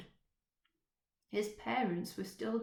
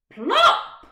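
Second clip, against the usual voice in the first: loud high call across the tree; 21 dB louder than usual. Acted. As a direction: call the child sharply by name. Mother calling her son.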